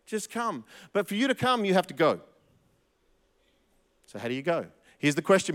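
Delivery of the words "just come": voicing Jesus' call. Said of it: "that's still the ask today".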